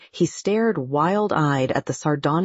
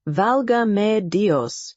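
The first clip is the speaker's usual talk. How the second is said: slow, high cry of anguish; 5 semitones higher, slower than usual. A narrator's reading. Don Diego, realising his ship is taken, cries out in anguish. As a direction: cry it out slowly like a man in anguish. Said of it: "he cried out, like a man in anguish".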